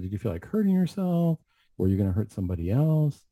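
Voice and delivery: an offhand, unhurried check-in; casual question. Retold or imitated. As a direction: ask it lightly, as if it were nothing. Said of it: "And very casually I said".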